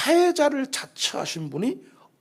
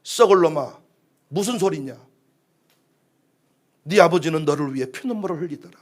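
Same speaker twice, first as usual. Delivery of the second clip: scolding mother; 4 semitones lower than usual. Acted. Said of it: "엄마가 등짝을 탁 때리죠".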